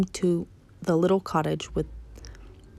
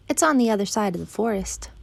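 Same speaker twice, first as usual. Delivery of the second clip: lightly voiced girl, higher pitch; little girl; 4 semitones higher than usual. Girl finishes directions for the wolf, lightly childlike. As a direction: explain it like a child.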